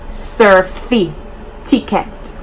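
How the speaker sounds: certificate said as two words, "surfy" then "ticket"; slow "surfy... ticket"; Jamaican surfy ticket. Shown as a demonstration. YouTuber shows the Jamaican "surfy ticket". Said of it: "Some of us even say surfy ticket".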